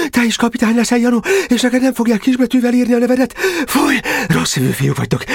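high, feverish rasping cries; delirious rasping. Acted. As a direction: rave hoarsely, as if commanding a battle. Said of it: "most már hörögve beszélt". (lázálomban, hörögve kiáltozva)

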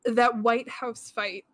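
talking with a blocked nose; congested, stuffed-up voice. Real, not acted. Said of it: "I'm all stuffed up today".

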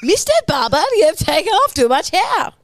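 sliding into French; accidental French accent. Acted. The German man turns French, mock French accent. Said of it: "Oh, French".

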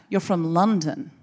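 slow would-be sinister Canadian; lightly menacing Canadian elder; Canadian accent. Retold or imitated. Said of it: "It's hard to make the Canadian accent sinister".

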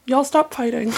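lightly voiced tired dad; impression of dad. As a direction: mildly scold the kids like a dad. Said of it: "the impression of your dad".

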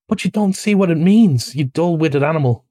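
mildly heated impatience; impatient. Acted. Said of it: "cried the rat impatiently".

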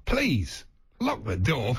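slow, insistent talking-toilet announcement; a bit insistent. Pretend. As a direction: press each word slowly, slightly pushy. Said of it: "that's a bit insistent".

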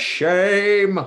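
loud mock scold.

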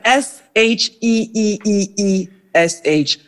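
S H E E E E S H spelled out, the E repeated evenly; drawn-out spelling. Shown as a demonstration. Guest teaching her surname, spelled out deliberately. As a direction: spell S H E E E E S H letter by letter, lingering on the Es. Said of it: "think of it as like".

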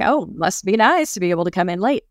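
mildly sarcastic, stretching NICE; mock envy, leaning on "nice"; resentful envy. Envying a coworker who comes in late, resentful. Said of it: "that feeling of resentment".

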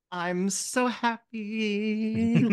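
put-on high, very slow, dreamy little girl voice; a twirling kid savoring her joy; giddy child. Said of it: "And she's like".

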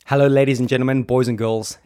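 loud ringmaster welcome. Acted. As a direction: call out like a circus host. Showman greeting to the audience.

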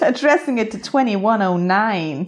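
a bad, lightly put-on American accent; awful American accent. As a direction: try an American accent and miss. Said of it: "That's an awful American accent".

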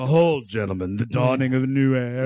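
movie villain voice. Acted. Reading villain movie lines.

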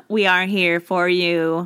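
slow, even robot voice. Pretend. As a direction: say it like a stiff robot. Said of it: "sounding like a robot".

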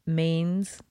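mains said the French way; French word. Shown as a demonstration. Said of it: "That means hands in French".

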